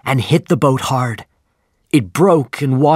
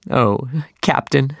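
cried; 3 semitones higher than usual. A narrator's reading. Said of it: "Starbuck cried".

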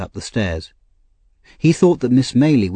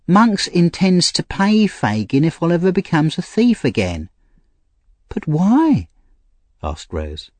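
put-on higher, pleading young woman; Nancy, street girl; 9 semitones higher than usual. A narrator's reading. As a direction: voice a desperate young thief girl. Nancy voiced.

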